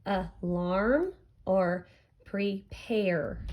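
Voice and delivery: "alarm or prepare" very slowly, a-larm, pre-pare; syllable by syllable. Shown as a demonstration. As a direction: gap inside both "alarm" and "prepare". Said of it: "match the same sound".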